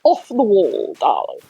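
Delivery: a mock posh English accent. Shown as a demonstration. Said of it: "if I would pronounce it in the pop accent".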